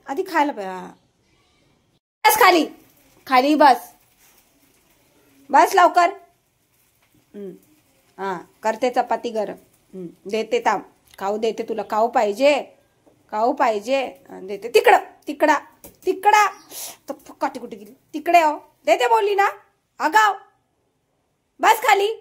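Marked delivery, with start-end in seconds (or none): 2.2-6.1 loud sit command. Real, not acted. Ordering the dog to sit. 14.7-16.5 short, raised-pitch orders; loud command. Real, not acted. Sending the dog away. 18.1-22.1 high, loud telling-off; exasperated scolding. Real, not acted. Scolding the disobedient dog.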